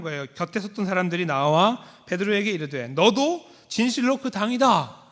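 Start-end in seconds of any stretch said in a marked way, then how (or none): 2.9-5.1 slow, raised accusation; slow, higher accusing bystander. Acted. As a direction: point the finger and pronounce it. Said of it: "이렇게 말해요".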